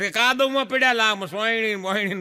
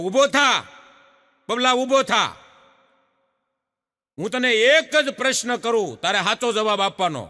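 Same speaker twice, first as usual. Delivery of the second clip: teacher voice; 3 semitones higher, 3 dB louder than usual. Retold or imitated. Teacher orders boy to stand.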